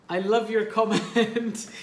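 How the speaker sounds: amused delight at the comment; laughing. Real, not acted. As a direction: let a laugh break into the line. Host reacting to a caller's comment.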